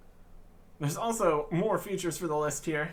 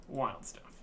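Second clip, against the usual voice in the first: softer muttered repeat under the breath; quiet echo; 7 dB quieter than usual. Real, not acted. Echoing himself to the viewers, quiet. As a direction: let it fall away quietly.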